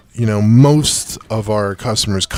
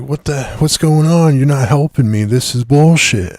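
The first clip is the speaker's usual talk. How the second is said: mock irate customer yell, slightly raised; retold yelling; 4 semitones higher, 4 dB louder than usual. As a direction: imitate a yelling customer, only half-heartedly. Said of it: "She's basically yelling at this point".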